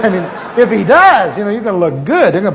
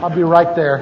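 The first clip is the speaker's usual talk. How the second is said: professional tone; 4 semitones lower than usual. Retold or imitated. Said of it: "In my best professional tone".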